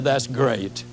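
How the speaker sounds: dry, sarcastic grumbling at the gate agent; sarcastic complaint. Pretend. Traveler mocking the agent about the cancelled flight, sarcastic. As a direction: gripe sarcastically, tired and put out. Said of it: "I could have gotten pretty sarcastic".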